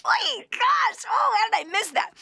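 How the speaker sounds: high pitched "Oy, gosh" in sudden dismay; dismayed realization. Retold or imitated. Reading a marriage book, she gasps at her own mistake, high and dismayed. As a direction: catch yourself, shocked at your own blind spot.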